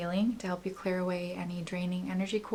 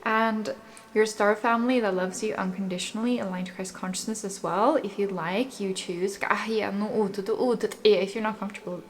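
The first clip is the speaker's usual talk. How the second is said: guided meditation. Acted. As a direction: calmly lead the listener's breathing. Guides affirmations and breathing.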